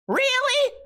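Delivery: very high squeaky rising question; hammed-up incredulous falsetto; mock disbelief. Friend stunned he missed the movie, mock disbelief. Mimics asker again.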